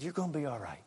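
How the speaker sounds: soft, quiet comforting words; retold gentle reassurance. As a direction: lightly re-enact comforting a child. Pastor comforting a grieving boy.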